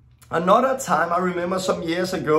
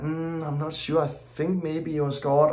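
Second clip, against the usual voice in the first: unsure murmur; 3 semitones lower, 5 dB quieter than usual. Retold or imitated. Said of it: "Sometimes it's like".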